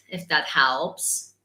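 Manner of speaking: Italian accent with the H in "helps" still sounded; put-on Italian, pronouncing the H of "helps". Shown as a demonstration. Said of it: "because H's are difficult".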